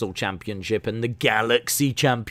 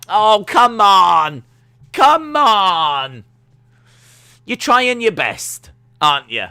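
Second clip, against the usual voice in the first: much higher, louder and slow, patronising; mock consoling; 10 semitones higher, 11 dB louder, slower than usual. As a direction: coo at him like at a sulking toddler. Mock consoling crying Vince.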